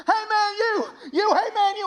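loud, high redneck holler; hammed-up redneck shouting after someone; redneck stranger. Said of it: "the most redneck human being you've ever met".

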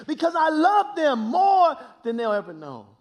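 high, loud preaching, ringing out; preaching at full force. Acted. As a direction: shout it to the back pew. Sermon climax, preaching at full force.

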